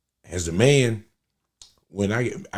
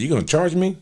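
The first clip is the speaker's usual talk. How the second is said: mom's disbelief; 8 semitones higher than usual. Retold or imitated. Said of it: "She said".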